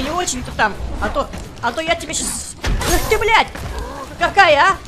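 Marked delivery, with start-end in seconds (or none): 1.0-3.5 angry. Real, not acted. Угрожает, потом вскрикивает.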